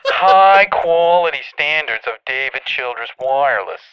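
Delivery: booming sales shout; shouted ad pitch. Acted. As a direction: yell it like a hype ad. Shouting the ad slogan.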